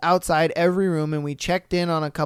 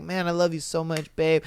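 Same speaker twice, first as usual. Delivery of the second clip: soft, quick murmur to a sweetheart; tender; 3 semitones lower, 6 dB quieter, faster than usual. Acted. Customer to partner at Valentine's breakfast, tender. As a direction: say it low and quietly, acting out affection.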